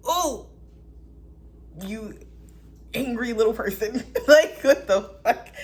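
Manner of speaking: mock the angry little person, laughing; laughing mockery. Real, not acted.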